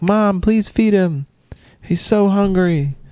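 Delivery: high, slow mock pleading; hammed-up begging imitation; pleading daughter. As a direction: whine to Mom on his behalf. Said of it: "And you're like".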